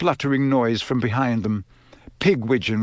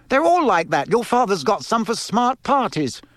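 cross; 9 semitones higher than usual. Acted. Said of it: "said Missus Weasley crossly".

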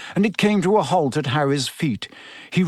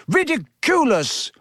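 high, determined shout; Neville; 10 semitones higher than usual. A narrator's reading. Pupil charging forward determined, high shout. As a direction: shout the spell with pitch leaping, volume contained. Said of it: "he shouted".

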